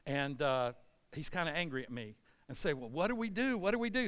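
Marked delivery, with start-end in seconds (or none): 2.7-4.1 high, anxious repeated question; mock worried. Sailors asking Jonah what to do, worried. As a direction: imitate a crew at a loss.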